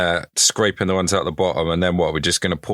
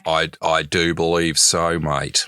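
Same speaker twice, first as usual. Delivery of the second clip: mock Australian. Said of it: "trying to build up my part".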